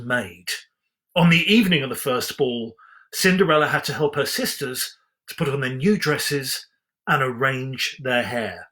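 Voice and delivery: storybook reading voice, measured and even; story narration. A narrator's reading. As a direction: read it like a bedtime storybook. Reads Cinderella story aloud.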